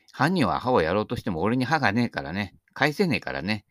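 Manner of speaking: speaking without front teeth; missing front teeth. Real, not acted. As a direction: talk through gaps in the teeth. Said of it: "前歯ないとね".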